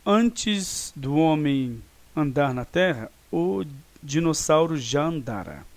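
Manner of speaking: slow, deliberate dictation pace; slow example sentence. Shown as a demonstration. Teacher reads an example sentence slowly to students. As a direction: spell out the example slowly for the class. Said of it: "Então, ele ocorreu antes de outra ação no passado".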